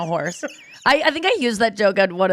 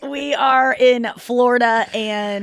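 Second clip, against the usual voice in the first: mock wail; 3 semitones higher, slower than usual. Mock crying shout.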